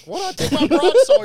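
high, loud hammed-up knight cry; mock knight voice. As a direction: bellow it like a storybook knight. Mock knight fighting the guard.

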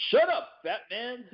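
high, slow mock put-down; movie gangster quote. Samuel Jackson silencing the diner manager, slow mock menace. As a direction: drag it out like a movie tough guy. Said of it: "he's like".

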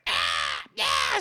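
half-hearted pterodactyl shriek; pterodactyl screech. Retold or imitated. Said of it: "screams like a pterodactyl the whole time".

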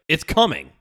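angry French snap, loud and high; French accent. Retold or imitated. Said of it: "like, with a French accent".

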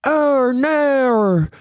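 imitating an Australian saying "no"; a light Australian accent; mock Australian. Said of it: "why do you talk like that?".

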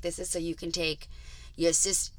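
gruff wiseguy offering cash; mobster voice. Retold or imitated. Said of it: "'cause I'm sounding like a mobster".

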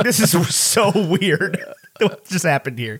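slow, laughing through the words; baffled, giggling at the scene; laughing disbelief. Retold or imitated. Fan reacting to Sam's line, laughing in disbelief. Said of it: "And I was like".

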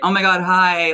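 high, loud squeal of a happy hello; excited greeting. Retold or imitated. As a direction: gush a hello like meeting a fan. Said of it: "then she was like".

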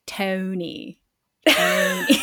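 imitated Philly accent on a single name. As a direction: say it with rounded Philly vowels. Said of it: "my only impression of him is".

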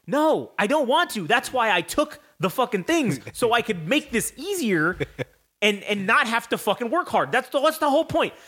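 whiny protest. Retold or imitated. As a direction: beg to be let off the hook. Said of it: "And I was like".

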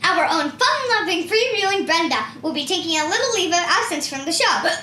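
upbeat TV host line; announcer voice. Shown as a demonstration. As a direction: perform it like an emcee. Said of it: "I will say my line".

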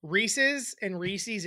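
Reese's as REE-siz, then Reese's as REE-seez; two pronunciations contrasted. Shown as a demonstration. Host contrasts two ways of saying Reese's, deliberate contrast. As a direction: say Reese's slowly both ways. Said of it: "people with brains and people with little tiny brains".

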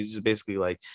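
normal talking voice

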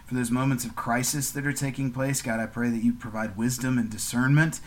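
steady, earnest prayer voice; gentle podcast prayer to God; closing prayer. Real, not acted. Prayer continues.

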